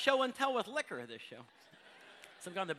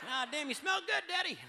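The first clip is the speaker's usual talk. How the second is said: mock redneck wife; 7 semitones higher than usual. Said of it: "little trees hanging underneath".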